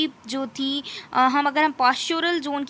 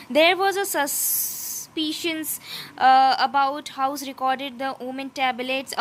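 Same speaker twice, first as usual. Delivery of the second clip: slow, deliberate reading of English text; slow textbook reading; much slower than usual. Acted. Teacher reading the textbook passage to students, slow and careful. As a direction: read it out word by word, slowly.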